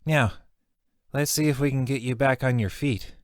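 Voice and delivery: high, bright gnome voice. Acted. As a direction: speak like a small friendly gnome. The gnome speaks.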